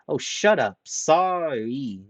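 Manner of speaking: loud, high snap then a throwaway sorry; snapping. Acted. Ranta cutting off Haruhiro, loud and irritated. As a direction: bark it, then toss off the apology.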